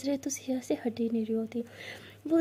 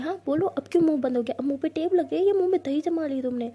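fast, loud scolding; louder rapid jeering rant; angry taunt; 3 semitones higher, 5 dB louder than usual. Acted. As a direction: fire the taunts off quickly.

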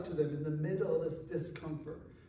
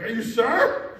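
loud, higher, laughing challenge; riled-up dad; 4 semitones higher, 11 dB louder, slower than usual. Retold or imitated. Dad to kids wanting to go home, loudly riled up. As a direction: burst out, still itching to step in.

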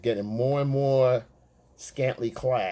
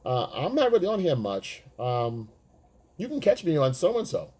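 woman brushing off; 4 semitones higher than usual. Retold or imitated. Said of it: "now she comes back".

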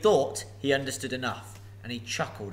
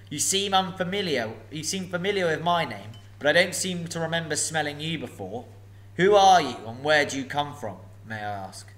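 a huge dragon toying with a thief; booming sly dragon; menacing dragon; 3 semitones higher, 6 dB louder than usual. Acted. Dragon questions Bilbo.

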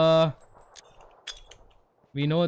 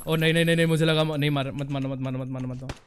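mock-panicked begging that dies away; panicked pleading; much faster than usual. Begging not to be killed in game.

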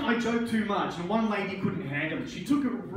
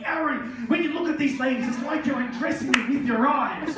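put-on accusing girlfriend; 4 semitones higher than usual. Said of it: "she'll just confront me".

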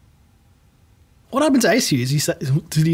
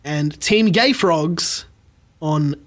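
game show host; slower than usual. Acted. Game show host announcing results.

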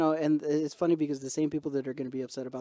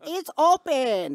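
high, slow mock Asian customer accent; 11 semitones higher, 5 dB louder, much slower than usual. Store customer haggling with the clerk, mock Asian accent. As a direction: drag out the words in a put-on Asian accent. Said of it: "I didn't even do the accent".

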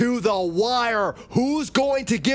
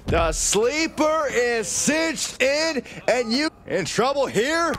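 play-by-play; 3 semitones higher than usual. Acted. Wrestling commentator calling a sleeper hold. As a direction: stretch the call out as the hold tightens.

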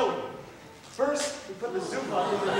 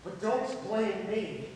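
slow build to a loud cry; huffy parting shot; 5 dB louder, much slower than usual. Acted. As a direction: build slowly, then yell the last words.

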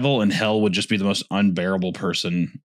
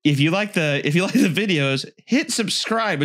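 higher mock YouTuber sign-off; video outro spoof; 6 semitones higher than usual. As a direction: plug the channel like a chirpy host.

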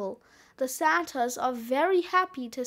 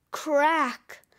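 sudden punched "crack"; cracking sound word; 3 dB louder than usual. Acted. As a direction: say "crack" like the noise itself. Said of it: "followed by a cracking sound".

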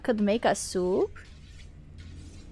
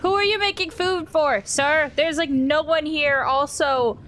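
mock indignant; 4 semitones higher, 4 dB louder than usual. Addressing a game character, mock indignant.

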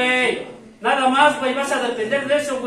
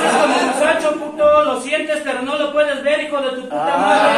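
angry yelling; 5 dB louder than usual. Acted. Sponsor yelling insults at a newcomer, loud. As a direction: bark it like a furious AA sponsor.

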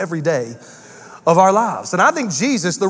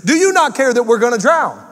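high panicked cry on "Teacher"; panicked disciples; 5 semitones higher than usual. Retold or imitated. Disciples crying to Jesus in the storm, high and panicked. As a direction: plead like men about to sink. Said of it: "They came to Jesus saying".

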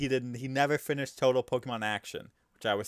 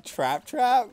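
high squeaky Pokémon cry; imitating Trapinch; 14 semitones higher, 7 dB louder than usual. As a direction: chirp it like a little Pokémon. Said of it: "the Trapinch saying".

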